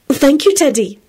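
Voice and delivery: high, bright thanks; bright reply. A narrator's reading. Beatrice thanks the boy, brightly. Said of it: "Beatrice replied brightly".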